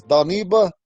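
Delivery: "Daniba" with a "dah" opening; old way. Shown as a demonstration. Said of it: "the old way to say pipe".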